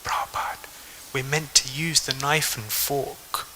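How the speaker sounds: hushed retold whisper, slow; a disciple at a fine dinner, whispering a reminder to his teacher. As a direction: quietly lean in and whisper the etiquette. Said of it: "whispered to Srila Prabhupada".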